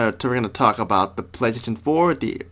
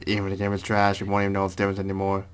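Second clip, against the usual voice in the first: Legion robot voice; 2 semitones lower, 5 dB quieter than usual. Pretend. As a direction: recite it like a cult machine. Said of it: "I was trying to quote Legion from Mass Effect two".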